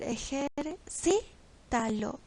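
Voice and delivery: ejércitalo slowly broken into syllables; stressed syllable shown. Shown as a demonstration. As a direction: say ejércitalo as e-jer-CÍ-ta-lo. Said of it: "es donde lleva la sílaba tónica".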